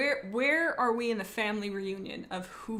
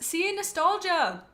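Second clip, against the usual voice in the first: triumphant; 8 semitones higher, 4 dB louder, slower than usual. Real, not acted. Chat message proves her point.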